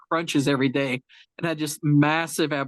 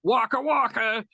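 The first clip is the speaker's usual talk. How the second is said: clown joke voice; 6 semitones higher than usual. Retold or imitated. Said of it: "and I'm like".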